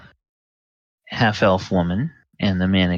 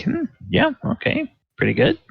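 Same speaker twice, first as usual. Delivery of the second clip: much higher, quick and offhand; mock-impressed thought; faster than usual. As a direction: shrug it off as merely fine. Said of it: "he would think".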